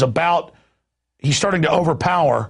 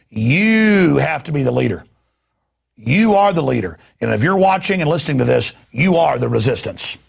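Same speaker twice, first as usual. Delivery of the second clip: rallying. Real, not acted. Rallying the audience.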